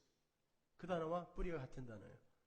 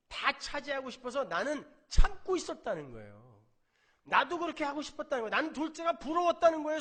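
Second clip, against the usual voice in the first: loud, high resentful rant building up; jealous outburst; 8 semitones higher, 10 dB louder than usual. Retold or imitated. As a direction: vent years of swallowed envy. Preacher voices jealous elder son. (참아온 큰아들이 아버지께 질투를 터뜨리며 크고 높게)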